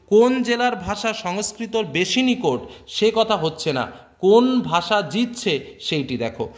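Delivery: slow, deliberate recitation of the passage; measured textbook reading; reading the text aloud. Acted. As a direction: read each phrase out slowly for the students. Reads quoted essay text, slower.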